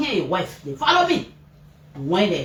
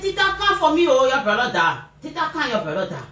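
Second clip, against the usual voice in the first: frantic call; 2 semitones higher than usual. Retold or imitated. Calling sister about dying son.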